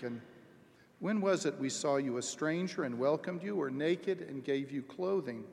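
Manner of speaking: measured, solemn Bible reading to the congregation; formal liturgical reading voice; scripture reading. Acted. Reads scripture aloud to congregation.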